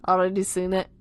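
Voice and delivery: loud, amateur Scouse; Liverpool accent. Acted. Tom asking Simon to look, Liverpool accent. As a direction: lay on a put-on Liverpool accent. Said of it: "time for my Liverpool accent".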